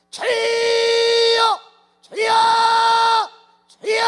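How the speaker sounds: high, loud cry of Lord, Lord; a worshipper crying out loud to God; desperate prayer cry. Retold or imitated. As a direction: shout it up to heaven, again and again. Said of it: "이걸 오백 번을 한다고 쳐봐".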